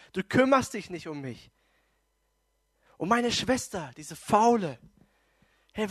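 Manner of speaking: mildly heated, acted reproach; indignant complaint. Martha griping to Jesus about her lazy sister, indignant. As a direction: pile up the accusations as fed-up Martha.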